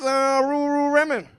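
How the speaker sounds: high, loud mock Asian accent, Ls in "Lululemon" turned to Rs. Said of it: "Asian people can't pronounce the letter L".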